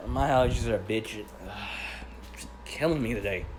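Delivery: blocked nose, sniffling; stuffy nose. Real, not acted. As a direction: talk through a stuffed-up nose. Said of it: "Woke up with my nose stuffed".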